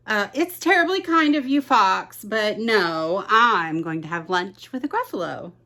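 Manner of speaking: a small polite mouse brushing off. Acted. Mouse to the fox, quick polite refusal.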